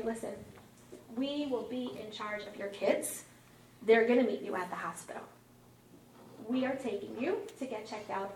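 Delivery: measured, firm, spelled-out instructions; imitated patient but firm authority; talking to a toddler. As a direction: explain it as if to a small child. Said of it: "get down on the level of a two-year-old".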